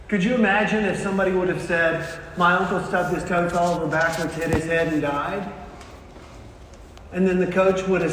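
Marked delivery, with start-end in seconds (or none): 2.4-5.4 understated, run-on summary of the tragedy; matter-of-fact retelling. Acted. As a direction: run through the misfortunes without drama. Same story retold in reverse order.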